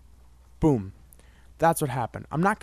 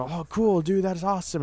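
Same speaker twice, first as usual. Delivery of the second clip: mock excited friends; 6 semitones higher than usual. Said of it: "my friends were".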